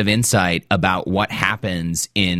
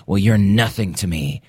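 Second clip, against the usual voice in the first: cold dismissal. Retold or imitated. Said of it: "And she says".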